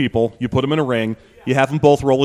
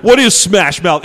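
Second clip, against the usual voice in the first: dramatic announcer; 4 semitones higher, 5 dB louder, slower than usual. Retold or imitated. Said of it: "They say".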